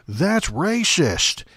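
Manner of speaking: mock shout of that's racist; scream it. Urging Democrats to shout down the president, drawn-out mock yell. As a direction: yell it out slow and long. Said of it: "real loud".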